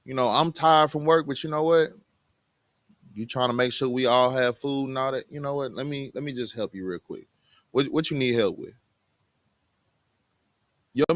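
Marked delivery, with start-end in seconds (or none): 0.0-8.7 softening into a willing offer; easygoing, obliging husband; won-over husband. Acted. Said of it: "He gonna be like".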